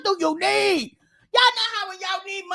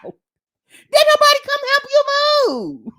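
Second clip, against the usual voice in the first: higher, altered mock voice; squeaky mock question; 7 semitones higher, 4 dB louder than usual. Real, not acted. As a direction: repeat it in a funny squeaky voice. Repeating the question mockingly.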